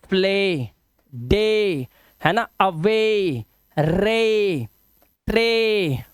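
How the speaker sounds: "प्ले, डे, अवे, रे, ट्रे" with held ay endings; slow model reading of "प्ले, डे, अवे, रे, ट्रे", long ay; long ay sound. Shown as a demonstration. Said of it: "उच्चारण क्या करना है हमें".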